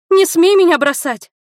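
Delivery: very high, loud pleading yell; desperate shout. Acted. Li screams at Hiro not to abandon her, high and loud. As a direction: scream at him not to leave. Li desperately refuses his leaving.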